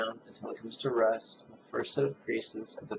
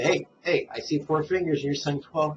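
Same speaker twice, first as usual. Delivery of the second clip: lightly voiced heckler, higher and a bit louder; playful imitation of a puzzled student; objecting listener; 3 semitones higher, 5 dB louder than usual. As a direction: pipe up with a mild mock objection. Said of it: "you might say".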